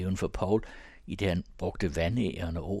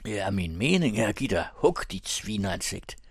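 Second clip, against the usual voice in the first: mildly raised, blustering threat; noisy shout. Acted. Thomas threatening his rival Paul, noisy understated shout. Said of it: "råbte Thomas støjende".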